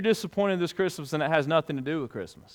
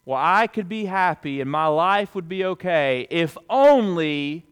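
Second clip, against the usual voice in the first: imitating a wishful believer; 2 semitones higher, 6 dB louder than usual. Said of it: "And it goes like this".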